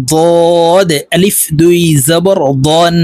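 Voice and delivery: slow ضاد and দন with a thick, heavy d; weight the d in ضاد and দন, stretch it out; heavy Dad. Shown as a demonstration. Teacher repeats the drill for learners, heavy ضاد and দন. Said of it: "দদ হরফ মোটা করে উচ্চারণ করতে হবে".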